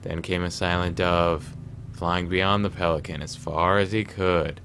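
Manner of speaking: poem reading. Acted. Reads a riddle poem aloud.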